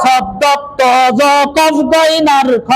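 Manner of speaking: slow, heavy "শব্দ ত জ কফ গইন আর খ", each letter full. Shown as a demonstration. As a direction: recite "শব্দ ত জ কফ গইন আর খ" slowly with thick, rounded sounds. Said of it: "সব সময় মোটা হবে". ("শব্দ ত জ কফ গইন আর খ" ধীরে, মোটা উচ্চারণে)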